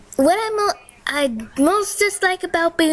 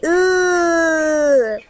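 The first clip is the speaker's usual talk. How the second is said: mock ooh. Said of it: "I say".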